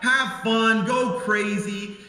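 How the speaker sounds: high, breezy carefree offer; mock generous host. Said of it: "I said".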